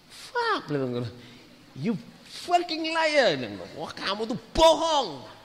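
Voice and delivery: high, drawn-out mock outrage; retold outraged disbelief. Woman accusing him of lying, retold with outraged disbelief.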